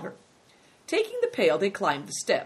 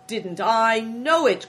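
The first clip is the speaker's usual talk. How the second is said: loud, drawn-out, higher exclamation; gleeful, raised-voice innkeeper; delighted cry; 5 semitones higher, 7 dB louder, slower than usual. A narrator's reading. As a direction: crow slowly with delight. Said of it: "cried the innkeeper, delighted".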